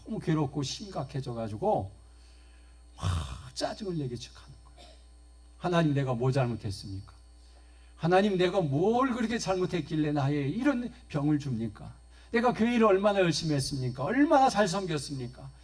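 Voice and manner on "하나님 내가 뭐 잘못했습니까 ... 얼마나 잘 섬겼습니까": complaining to God. Acted. 하나님께 대드는 권사님, 점점 격해지는 하소연. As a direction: protest to God as if wronged. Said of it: "하소연하며 대듭니다".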